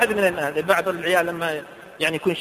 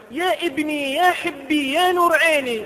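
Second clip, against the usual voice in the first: تقليد أب لبناني; 7 semitones higher, slower than usual. Retold or imitated. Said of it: "يقول له".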